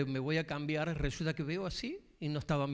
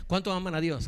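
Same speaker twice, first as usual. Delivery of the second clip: "¿Cuántos" pushed higher and louder; louder repeat; 5 semitones higher, 6 dB louder than usual. Shown as a demonstration. Pastor repeats his question to the congregation, louder and higher. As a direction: repeat the question, raising it to rouse them.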